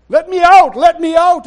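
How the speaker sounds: full loud shout, falling on out; crying out. Acted. Friends at supper, Spirit flowing, shouted cry. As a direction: belt it out like it can't be held in. Spirit voiced in restaurant story.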